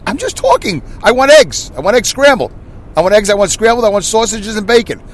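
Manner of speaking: high-pitched radio host at breakfast; radio-show voice. Retold or imitated. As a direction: order breakfast as if on air. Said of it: "talking like, like you're on a radio show".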